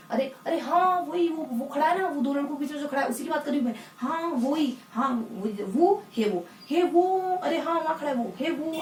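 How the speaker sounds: put-on pointing at the boy behind two others; pointing someone out. Shown as a demonstration. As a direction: call out excitedly to a friend. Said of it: "आप किसी को इंगित करके बोल रहे हैं".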